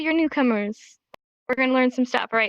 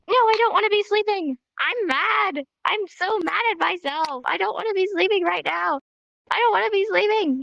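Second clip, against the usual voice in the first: mock-cranky, higher-pitched protest; mad at oneself; 6 semitones higher than usual. Teacher acting mad at being sleepy, mock-grumpy. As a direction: pout and whine in pretend anger. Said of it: "then you get mad at yourself".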